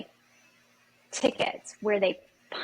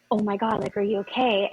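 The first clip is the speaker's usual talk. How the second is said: a hint of crying, asking if she's okay; tearful concern, lightly voiced; teary comfort. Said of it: "she's crying".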